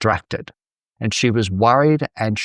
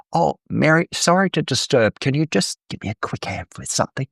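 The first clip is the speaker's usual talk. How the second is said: a light, imagined polite request; politely apologetic; 4 semitones higher than usual. Pretend. Imagined Martha sweetly interrupting her sister Mary, politely apologetic. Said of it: "and doesn't say".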